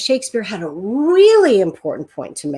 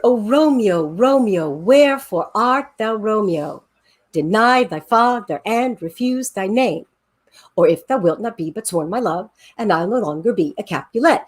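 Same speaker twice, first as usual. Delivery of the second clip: reciting Juliet with a rhymey, bouncy beat; bouncy sing-song rhythm. Shown as a demonstration. Teacher reading Shakespeare to show the rhythm, sing-song. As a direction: lean into the da-dum meter like a nursery rhyme. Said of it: "do what I just did and do the, like, the rhymey and the bouncy and the sing-song".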